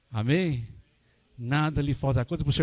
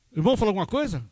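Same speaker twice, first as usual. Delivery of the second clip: high, louder startled question; 9 semitones higher, 5 dB louder, much faster than usual. Retold or imitated. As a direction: ask the father in sudden alarm. Startled pastor asks father.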